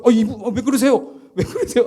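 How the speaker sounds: high-pitched mock panic with a laugh in it; flustered protest. Rookie to the protester untying his boots, flustered and high. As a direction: act out a bewildered, half-laughing plea. 군화를 푸는 시위자에게 당황한 신병.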